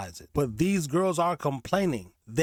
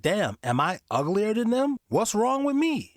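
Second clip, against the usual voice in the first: rising higher into a whiny question; mock insecure woman; 6 semitones higher than usual. Host imitating the single woman comparing herself, pitched-up whine. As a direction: play her fretting over her looks. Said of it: "I'm looking at them like".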